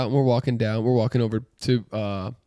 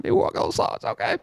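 whisper; 6 dB quieter, faster than usual. Retold or imitated. Mocks his own calming words.

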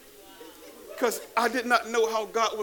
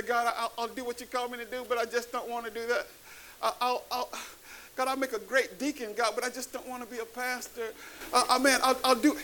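higher-pitched, stammering plea; retold bargaining in a small, higher voice; reluctant pleading; 3 semitones higher, 4 dB quieter than usual. Young believer begging God off the call, reluctant pleading.

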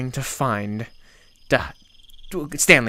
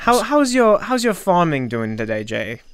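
put-on slipping into a British accent; 2 semitones higher, 3 dB louder than usual. Asking Jay about his farming, sudden British accent. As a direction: lapse into put-on British speech. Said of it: "Why are you British?".

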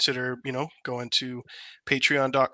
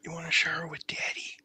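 creepy hushed whisper; soft, whispered mock invitation; President Biden; 3 semitones higher, 5 dB quieter than usual. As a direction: murmur it in a breathy presidential impression. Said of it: "Kyle, President Biden".

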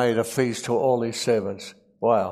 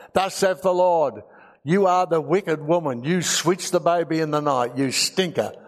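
a mild hammed-up prophetic voice, higher at the start; mock prophet; 3 semitones higher than usual. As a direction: lightly play a thundering prophet, half in jest. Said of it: "he could have prophesied".

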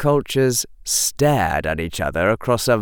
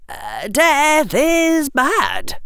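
put-on higher, slow, emphatic boy; young Harry, blunt; much slower than usual. Harry lecturing Dumbledore, slow and blunt. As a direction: spell it out bluntly.

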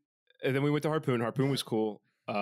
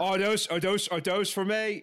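high, loud mock Boston cop; struggling, exaggerated Boston cop voice; attempted Boston accent; 9 semitones higher, 4 dB louder than usual. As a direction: push a bad Boston accent. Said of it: "Yeah, I can't do it".

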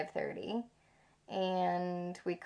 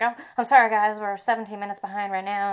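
light mock English accent, a touch louder; 2 semitones higher, 3 dB louder, faster than usual. Bus driver apologizing to passengers in a light English accent. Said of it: "but in an English accent".

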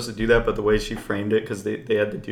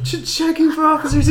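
very high, stumbling mock trainee voice; squeaky, stuttered mock read-out; trainee reading aloud; 3 dB louder than usual. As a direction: imitate a hapless recruit reading off a sheet. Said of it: "he's reading it off the sheet".

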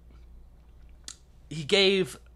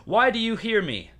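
roman orator; 7 semitones higher, 3 dB louder than usual. Acted. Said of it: "And I quote".

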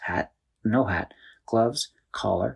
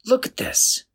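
higher, breathy amazement; excited; 3 dB louder than usual. A narrator's reading. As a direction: call out in wonder, pitched up. Chris points out the balloons.

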